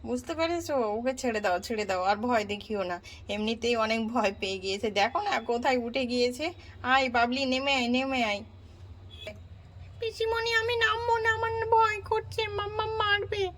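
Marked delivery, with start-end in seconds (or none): 1.0-8.4 put-on calm the scared girl down; aunt coaxing the child gently; soothing aunt. 10.0-13.4 put-on child pleading from the roof; scared child. Child answering aunt.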